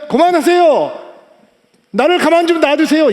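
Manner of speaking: high, loud acted plea to stop; loud protest. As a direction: cry out to be left alone. Blind man voiced protesting being handled.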